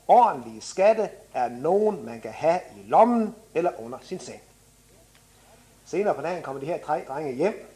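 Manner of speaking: put-on animated children's book narration; story reading. A narrator's reading. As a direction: read a children's story with lively dialogue. Reads from children's book aloud.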